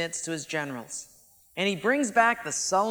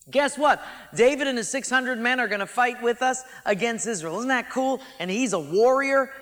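eager boast; 3 semitones higher than usual. Acted. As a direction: sell it like he's won a trophy. King Achish boasting to generals.

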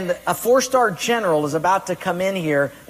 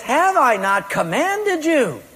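God's command; 8 semitones higher, 3 dB louder than usual. Acted. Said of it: "he says".

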